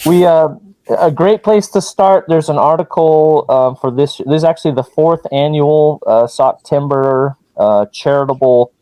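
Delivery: muffled through a mask. Real, not acted. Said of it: "your mask might be reverbing".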